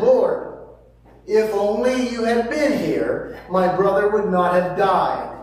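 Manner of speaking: an acted, pleading lament from Scripture; emphatic plea. Mary's plea acted in scripture reading.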